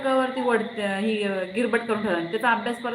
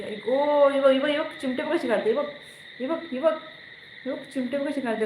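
pained complaint; 5 semitones higher than usual. Real, not acted. Mother pinched by the child, pained protest.

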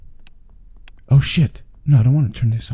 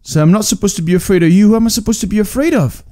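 scared horror game streamer; 7 semitones higher, 3 dB louder, faster than usual. Real, not acted. Nervously questions the ghost girl.

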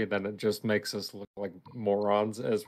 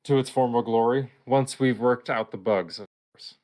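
measured, formal letter read-out; reading email aloud; 3 dB louder than usual. Acted. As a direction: read out an employee's earnest letter to the boss. Reads in-game email aloud.

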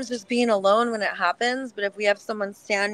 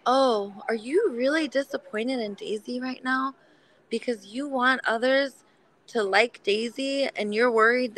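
gentle reply; 2 semitones higher, 3 dB quieter than usual. Retold or imitated. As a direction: ease the critic down kindly. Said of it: "I would say something like".

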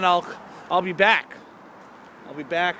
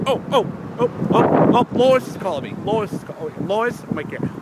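lightly voiced cartoon dad; goofy Peter Griffin impression; 4 semitones higher than usual. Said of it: "I like talking like Peter Griffin".

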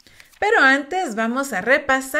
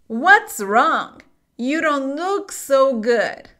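"What's wrong? You don't look so good." read smoothly in one breath; slower than usual. Shown as a demonstration. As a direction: run the words together without pausing. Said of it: "leer esto completo, de corrido".

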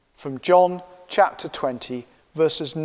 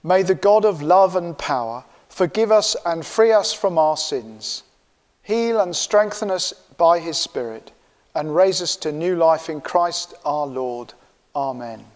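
solemn absolution blessing; prayer. Acted. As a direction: pronounce forgiveness calmly and gravely. Absolution prayer after confession.

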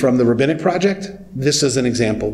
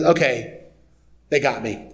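amused concession; 4 dB quieter than usual. Retold or imitated. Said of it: "God laughs and smiles and says".

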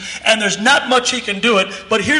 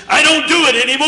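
emphatic; 5 semitones higher, 3 dB louder, faster than usual. Retold or imitated. Boy's emphatic denial, retold.

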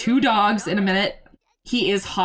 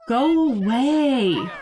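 mock dismissive drawl; 3 semitones higher, much slower than usual. Real, not acted. Kicking character out, drawn.

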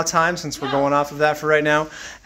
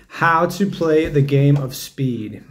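slow, drawn-out announcer read; 3 semitones lower, slower than usual. Pretend. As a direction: announce it like a game show host. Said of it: "this is my announcer voice".

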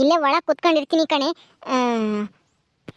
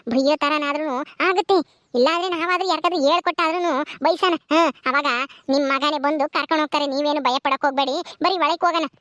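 reassuring; 4 semitones lower than usual. Acted. Reassuring mother-in-law.

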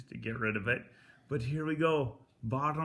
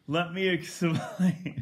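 laughing; 4 semitones higher, 5 dB louder, slower than usual. Real, not acted. Laughs after the hot swish.

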